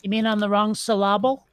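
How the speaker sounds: "syllable" said as syl-LA-ble, stress on the second syllable; misplaced stress. Shown as a demonstration. Teasing a friend by mangling "syllable" with the stress on its middle. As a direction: joke the word "syllable" with its stress moved to the middle. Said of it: "the accent on the second syllable".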